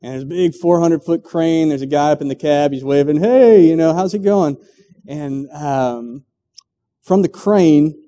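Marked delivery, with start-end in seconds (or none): 3.2-4.6 cheery greeting. Acted. Crane operator waving cheerfully.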